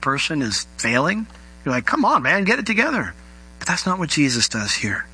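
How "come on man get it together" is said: impatient reproach. Retold or imitated. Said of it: "how most of us tend to react".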